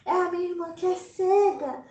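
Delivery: a lightly voiced friend correcting her; friend laughing it off. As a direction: brush off the fear lightly.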